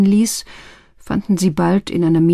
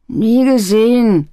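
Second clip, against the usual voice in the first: defiant youth; 5 semitones higher, 4 dB louder, slower than usual. Acted. Youth denies under threat.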